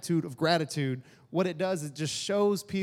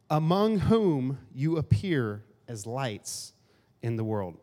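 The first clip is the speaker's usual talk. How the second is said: scripture reading; 2 semitones lower, slower than usual. Acted.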